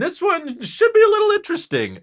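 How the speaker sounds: "should" pushed high in pitch; stress on SHOULD. Real, not acted. Host hedging hopes for the shareholder deck, stress on "should". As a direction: lean hard on the word "should". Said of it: "emphasis on the should".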